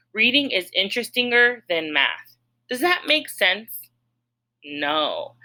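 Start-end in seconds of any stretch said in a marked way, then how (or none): 0.1-2.4 mock trying a wrong form, voice a little higher; deliberately wrong form. Shown as a demonstration. Teacher trying a wrong form for students, mock trial. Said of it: "Let me try it".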